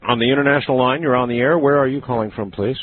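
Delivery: usual speaking voice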